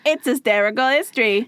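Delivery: mock British show intro; British accent. Host opening the history podcast in a mock British accent. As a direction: announce it in a jokey British accent. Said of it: "Can you tell what accent I'm doing?".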